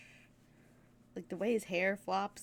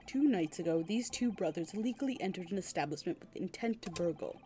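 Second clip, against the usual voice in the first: low measured testimony to the court; formal inspector report; 3 semitones lower, 3 dB quieter, faster than usual. Acted. Inspector reports the burglary to the judge, formal. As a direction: read the charge crisply.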